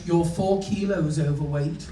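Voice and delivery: slow, mildly snotty pronouncement; dead snotty. Acted. Check-in woman weighs the suitcase, mildly snotty. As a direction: deliver the verdict like a slightly snooty clerk. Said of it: "she's dead snotty".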